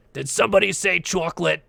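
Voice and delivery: put-on creaky old lady asking about chocolate, lightly done; SpongeBob old lady. Imitating the SpongeBob old lady for stream viewers, lightly voiced. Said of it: "really old lady that sounds like about to die".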